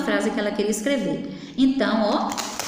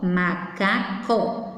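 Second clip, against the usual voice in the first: "macaco" slowly as ma, ca, co; split into syllables; 3 semitones lower, much slower than usual. Shown as a demonstration. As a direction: break "macaco" into three separate beats. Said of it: "e a separação de sílabas?".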